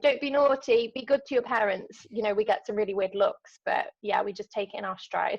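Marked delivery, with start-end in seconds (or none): 0.0-2.1 mild mock yell, easing off; a light impression of calling out a telling-off; imitated yelling. Sister imitating brother yelling at schoolboys, mild mock yell. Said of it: "yelling at schoolboys like".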